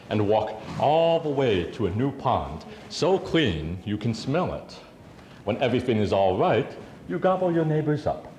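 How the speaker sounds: wry spoken-word poem with lifted openings; rhythmic, emphatic poetic delivery; poetry recital. Acted. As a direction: perform it as verse to a live audience. Recites own poem to audience.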